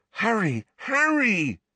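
high, pleading calls; frightened friend calling his name; urgent calling. Acted. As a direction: call him back, worried. Ron calls Harry again.

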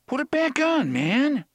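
high, loud pleading cry; alarmed shout. Acted. Eddie shouting at Roland to keep his gun, high and loud. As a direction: yell it at him, high and frantic.

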